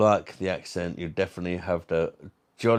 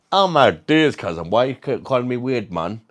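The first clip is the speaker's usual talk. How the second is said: mock offended; 6 dB louder than usual. Acts offended at being called weird.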